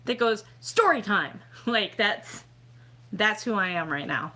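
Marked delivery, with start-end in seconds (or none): 0.6-1.4 announcing Story time like the Vine guy; Vine kid catchphrase. Retold or imitated. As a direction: call out Story time brightly. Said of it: "that guy on Vine that goes".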